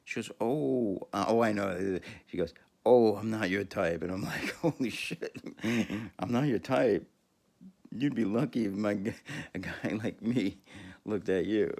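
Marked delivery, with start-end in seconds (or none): 0.4-4.0 dismissive. Retold or imitated. Retold woman rebuffing him. 4.6-11.7 indignant. Retold or imitated. Retold indignant comeback.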